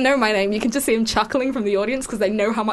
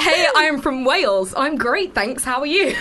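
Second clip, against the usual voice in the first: put-on Welsh accent; 3 semitones higher, slower than usual. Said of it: "in a Welsh accent".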